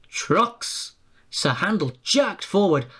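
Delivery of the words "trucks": high, firm teasing trucks; driver's firm retort. A narrator's reading. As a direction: driver echoes him firmly. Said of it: "his driver repeated".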